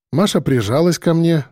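ordinary delivery, nothing marked

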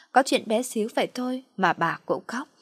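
usual speaking voice

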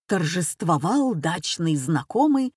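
plain reading voice

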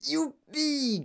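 thin-volume, high-pitched cheer; gleeful cry. A narrator's reading. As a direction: whoop in a high voice. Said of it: "cria encore grand-papa Joe".

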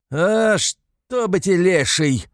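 high, loud, slow cry of rage; furious outburst. A narrator's reading. Mikolka screams at the kicking mare, high loud rage. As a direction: explode at the mare. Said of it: "вскрикивает в ярости Миколка".

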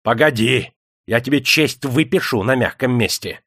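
master's measured menace; threatening. A narrator's reading. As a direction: promise punishment with relish. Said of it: "пригрозил".

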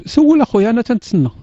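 high loud "سول اخويا", calling out; impatient loud invitation. Real, not acted. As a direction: shout go ahead and ask. Urging the caller loudly.

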